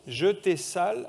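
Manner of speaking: "Je t'ai sale" in separate syllables, "te" said as "tai"; angel's little accent. Acted. Preacher sounding out a rebus for children, angel's little accent. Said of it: "il a un petit accent, l'ange".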